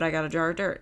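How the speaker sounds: Jack Sparrow quote. Retold or imitated. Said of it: "that's when he quoted".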